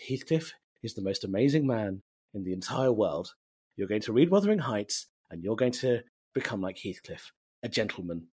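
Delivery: soft, earnest mother's instruction; lightly voiced mum. Mum tells her child about Heathcliff, lightly imitated, earnest. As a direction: imitate mum gently laying down the plan.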